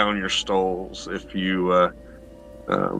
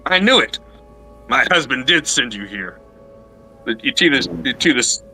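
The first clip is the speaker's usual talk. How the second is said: unhinged outburst; 2 semitones higher than usual. Acted. Lady loses composure.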